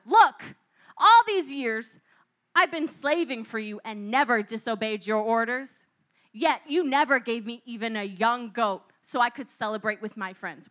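a whiny grudge against his father; aggrieved complaint. Acted. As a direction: brother whining loudly to his father. Jealous brother complains.

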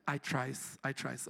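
low and soft, mock Latino accent; preacher hamming up a bad Latino accent. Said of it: "Here comes my Latino accent".

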